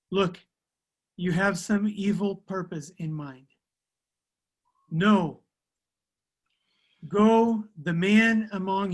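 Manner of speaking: measured Bible reading, firm on the commands; scripture reading. Acted. Interpreter reads Exodus to the group, deliberate scripture reading. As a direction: read it out deliberately, pausing between phrases.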